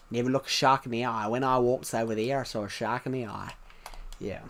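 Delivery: low put-on Australian accent; amateur Aussie accent. Shown as a demonstration. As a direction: have another try at an Australian accent. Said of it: "I can do it better".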